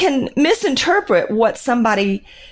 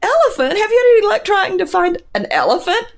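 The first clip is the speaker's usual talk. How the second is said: high amused disbelief; baffled repeat of the odd word; incredulous; 8 semitones higher than usual. Retold or imitated. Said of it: "It was like".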